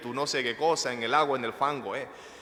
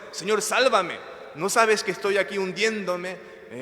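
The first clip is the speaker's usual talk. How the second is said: high, raised imploring call; crying out to God; 5 semitones higher, 3 dB louder than usual. Acted. Preacher voicing a sinking believer crying to the Lord, loud plea. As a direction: plead loudly as if sinking. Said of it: "para gritarle al Señor".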